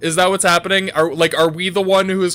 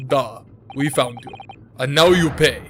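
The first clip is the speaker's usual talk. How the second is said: badly faked Russian accent; amateur Russian accent for a game villain; Russian guy. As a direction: menace them in a mock-Russian accent. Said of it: "it's the Russian guy".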